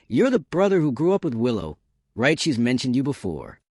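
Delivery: a hint of a smug, taunting rival; mildly voiced boyfriend sneering at the brother; provocative smirk. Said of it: "Makoto smirked provocatively".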